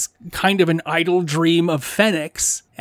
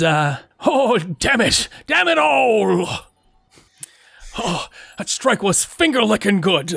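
big swooping southern cartoon rooster voice, crowing; 4 semitones higher than usual. Voicing Leth crying out in pain after a magic strike, Foghorn Leghorn voice. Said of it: "trying to be as the big chicken from Looney Tunes".

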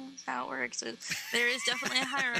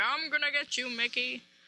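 big cartoon dog voice. Describing a Disney cartoon dog character and imitating Pete. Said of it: "Pete, the big dog thing that's always like".

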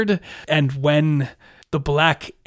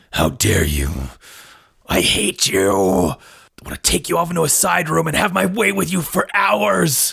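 creaky, rough, sing-song, swooping orc monster voice; 2 semitones higher than usual. Voicing an orc enemy during combat: orc character voice. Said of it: "light hammer wielding orc's turn, and he's like".

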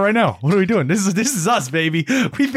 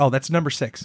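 normal talking voice

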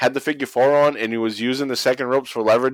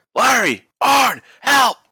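very high, swooping, shrieking scream, acted out; 13 semitones higher, 4 dB louder than usual. Retelling a man at ringside screaming into his phone: imitating someone screaming for help. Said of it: "And he's screaming".

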